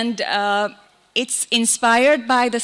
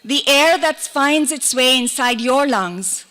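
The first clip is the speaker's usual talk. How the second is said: measured poem recital with long pauses between lines; poetry reading. Acted. Poet reads on being human to an audience, measured recital. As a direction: recite it line by line, letting each image settle.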